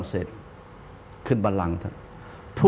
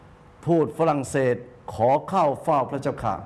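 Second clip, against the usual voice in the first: court official announcing; slower than usual. Retold or imitated. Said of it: "เจ้าหน้าที่บอก".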